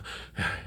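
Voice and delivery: brief puff of acted panting; breathing hard. Shown as a demonstration. Grandpa explains in between breaths, breathing hard. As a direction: huff as if winded mid-sentence. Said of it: "I'm breathing hard".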